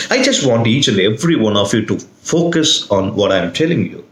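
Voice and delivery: "focus" picked out mid-sentence; stress on FOCUS. Shown as a demonstration. Teacher wanting every student's attention, stress on "focus". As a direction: lean on the word "focus". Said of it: "was on that word focus".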